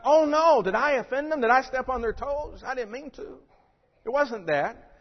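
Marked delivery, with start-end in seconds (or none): 0.0-0.6 high, loud mock gasp of dismay. Mock worried Jesus reaction. 0.6-3.4 mock fretful apology. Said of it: "Jesus' reaction was not".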